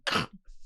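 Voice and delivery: short throaty crunch for a latch; latch snapping noise. Pretend. Game master sounding a latch snapping, short throaty noise. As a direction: imitate a latch breaking off.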